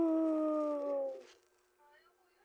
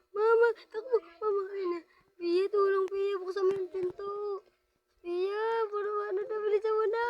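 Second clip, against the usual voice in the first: crying. Real, not acted. Begging Pia to open door.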